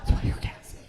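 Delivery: unvoiced half-shout. Repeated punchline, shouted.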